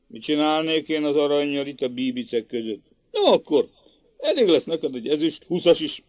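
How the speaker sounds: chuckling through the words; barely holding back laughter; telling it while laughing. Acted. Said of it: "olyan nagy volt a nevethetnékje".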